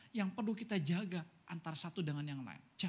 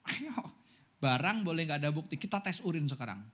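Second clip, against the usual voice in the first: police intel interrogation. Retold or imitated. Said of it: "kalau udah intel gaya nanyanya itu".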